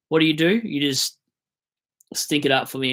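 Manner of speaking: exasperated. Real, not acted. Ranting at the player.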